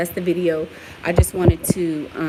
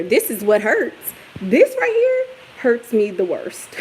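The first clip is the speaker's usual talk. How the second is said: mock hurt; 3 semitones higher, 5 dB louder, slower than usual. Real, not acted. Mock complaint about lashes.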